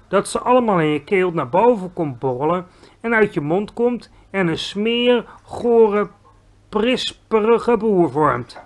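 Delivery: disgusted giant. Acted. Giant describing a burp, disgusted. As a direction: savour the nastiness.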